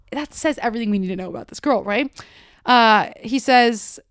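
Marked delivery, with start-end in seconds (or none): none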